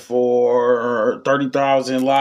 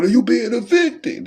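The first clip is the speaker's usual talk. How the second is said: put-on high, slow drunk rant; a sloppy drunk throwing people out; hammed-up drunk tirade, much higher; 12 semitones higher, slower than usual. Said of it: "that drunk shit".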